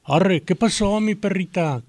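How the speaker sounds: slow cool street drawl. Retold or imitated. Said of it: "una frase que usan mucho ahora los chavos".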